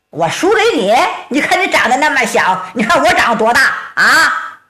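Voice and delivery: the big oaf scoffs in disbelief; indignant giant. Acted. Meng Chunda indignant retort.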